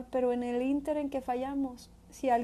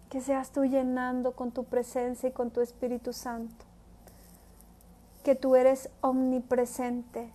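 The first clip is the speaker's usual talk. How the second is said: prayer. Acted. Preacher leading listeners in prayer, earnest and devout. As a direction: pray it from the heart.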